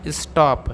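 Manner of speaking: स्टॉप with a rounded aw, like stawp; correct English stop. Shown as a demonstration. Teacher giving the right reading, स्टॉप with rounded aw. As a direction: say स्टॉप with a light aw. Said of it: "क्या पढ़ रहे हैं दोस्तों".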